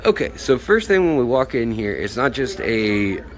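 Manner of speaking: speaking through a face mask; words dulled behind a mask; muffled through mask. Real, not acted. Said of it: "sorry if it's a little muffled".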